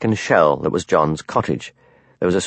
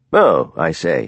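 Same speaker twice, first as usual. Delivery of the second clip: put-on upper-class English accent; 5 semitones lower, much slower than usual. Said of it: "trying to do an upper-class English accent".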